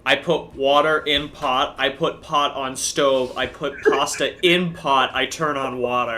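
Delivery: slow, spelled-out caveman steps; mock plodding explanation. Mocking the friend's pasta method, slow and simple. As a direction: lay it out one dumb step at a time. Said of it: "It's like".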